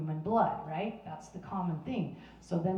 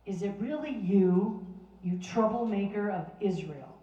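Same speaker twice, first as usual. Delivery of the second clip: mocking accusation; 3 dB louder than usual. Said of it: "this is what Ahab has the audacity to say".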